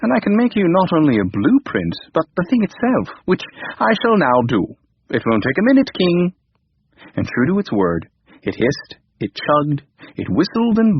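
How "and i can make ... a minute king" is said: confident computer. Acted. Computer boasts.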